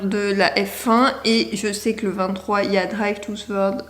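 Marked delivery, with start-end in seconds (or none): 2.8-3.8 "Drive to Survive" tried in an English accent; English accent attempt. Shown as a demonstration. Naming the Formula One series, trying English accent. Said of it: "mais mon accent anglais".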